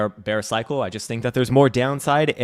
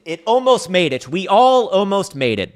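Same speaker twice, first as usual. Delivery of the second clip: hammed-up wail; 10 semitones higher, 7 dB louder than usual. Streamer mourning Bitcoin's lost price to viewers, hammed-up wail. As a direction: wail it like a tragedy, building up.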